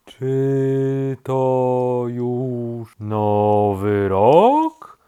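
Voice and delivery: extremely drawn-out question, rising at the end; very slow turtle. A narrator's reading. Sleepy turtle asks rabbit the time, very slowly. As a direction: stretch every word like a slow turtle. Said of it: "powiedziało zwierzę bardzo wolno".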